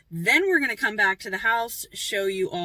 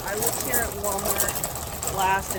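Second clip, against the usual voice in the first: on a bumpy road. Real, not acted. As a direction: voice jostled while walking. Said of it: "sorry for the shaking".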